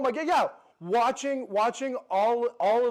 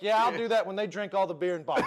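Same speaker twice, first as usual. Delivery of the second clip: quick folksy saying; much faster than usual. Shown as a demonstration. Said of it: "term is like".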